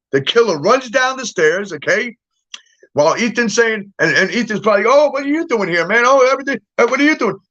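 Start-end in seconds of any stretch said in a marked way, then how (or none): 4.9-7.4 high-pitched, startled questioning; mock startled outburst, pitched up; acted alarm. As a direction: play someone caught off guard by an intruder. Acts Ethan confronting the intruder.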